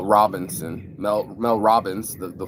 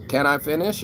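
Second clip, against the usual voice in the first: rude demand; 6 semitones higher than usual. Shown as a demonstration. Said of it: "is a very rude way of saying".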